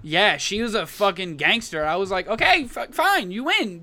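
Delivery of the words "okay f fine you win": high-voiced mock surrender; retold giving in. Visitor conceding to tough scare actor, high exasperated surrender. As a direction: give up in a raised, higher voice.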